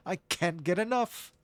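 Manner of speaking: high, slow gloating villain voice; M. Bison. Acted. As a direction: savor every word like a megalomaniac villain. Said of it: "Maybe I'm leaning more into M. Bison".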